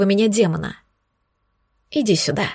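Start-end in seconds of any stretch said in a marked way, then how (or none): 1.9-2.5 тихо и вкрадчиво, чуть тише; лёгкое соблазняющее мурлыканье; мурлыча. Acted. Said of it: "мурлыкнул кореглазый". (демон тихо зовёт героиню к себе, мурлыча)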